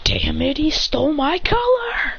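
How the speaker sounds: high, drawn-out indignant complaint; mock anger. Christian seeing his rival's outfit, mock-angry whine. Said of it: "a vein pops up in his head".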